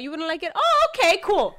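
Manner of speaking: mock sarcastic brush-off. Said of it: "And he was like".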